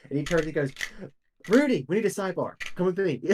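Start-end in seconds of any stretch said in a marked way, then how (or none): 1.5-3.2 raised, higher-pitched summons; lightly acted call to come aside; calling over. Bill summons Rudy for a sidebar, higher and louder call.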